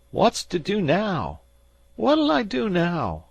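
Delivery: high and loud, rising in fear; panicked crying out. A narrator's reading. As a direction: let the panic climb. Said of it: "cried Uncle Salters".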